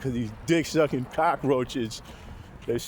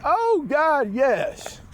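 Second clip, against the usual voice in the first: mock woman's moan; 9 semitones higher, 4 dB louder, much slower than usual. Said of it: "She said".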